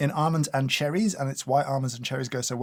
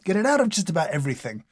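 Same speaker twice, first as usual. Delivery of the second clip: emphatic, louder plea to be rid of it; exasperated rant; 3 semitones higher, 4 dB louder than usual. Real, not acted. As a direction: rant with mock outrage. Rants against mint in food.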